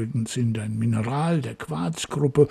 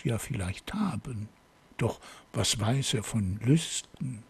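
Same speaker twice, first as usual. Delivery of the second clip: measured, unhurried poem reading; poem recitation. Acted. Podcast host reads the mystery poem to listeners once more, measured recitation. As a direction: recite it in phrases with pauses between.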